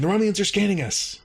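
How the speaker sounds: high retold alert; urgent interruption. Commando interrupting the cadet with a scan warning, high mock urgency. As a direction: cut in with mock alarm. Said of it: "interrupting her and saying".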